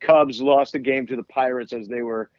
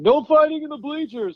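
high-pitched mock yell; imitated yelling; 13 semitones higher than usual. Retelling how a dude at the ballpark kept yelling, high imitated yell. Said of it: "who just kept yelling".

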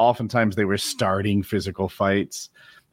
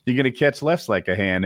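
mock fed-up guy; 6 semitones higher than usual.

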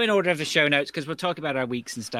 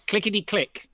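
sing-song bingo call, raised up high; bingo caller; 10 semitones higher, 6 dB louder than usual. Acted. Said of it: "We're not doing the bingo call tonight".

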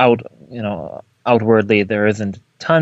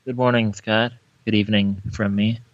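put-on Russian accent; 4 dB quieter than usual. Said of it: "Hunt for Red October-esque Russian accent".

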